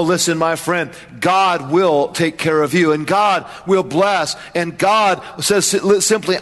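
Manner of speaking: ordinary talk, nothing marked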